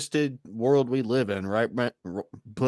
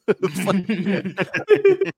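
ordinary talk, nothing marked

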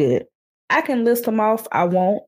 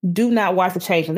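half-shouted through laughter; laughing warning. Real, not acted. Warning her co-host off the show, laughing. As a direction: warn them off while cracking up.

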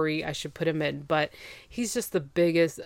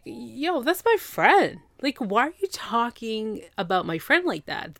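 higher, indignant acted protest; mock indignant; 4 semitones higher than usual. Friend defends her friend to the ex, acted indignant. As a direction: stick up for a friend, pitched up.

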